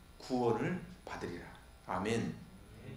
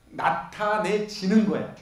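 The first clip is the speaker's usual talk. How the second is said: 나타내지는 drawn out slowly, each syllable leaned on; slow down and press on 나타내지는; stressed passive form; 3 dB louder, slower than usual. Shown as a demonstration. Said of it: "수동형". (나타내지는 을 천천히 또박또박 힘주어)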